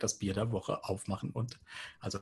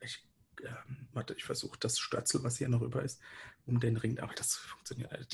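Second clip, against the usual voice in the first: half-whispered muttering while fiddling; muttering to himself; 2 semitones higher, 5 dB quieter than usual. Real, not acted. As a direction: mumble under your breath. (leise vor sich hin murmelnd)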